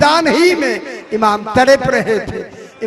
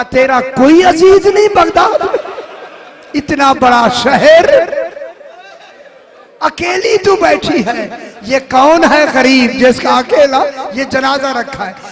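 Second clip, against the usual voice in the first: a rider's raised, pleading call; 3 semitones higher, 5 dB louder than usual. Acted. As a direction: shout the question from horseback. Rider calls to lone woman.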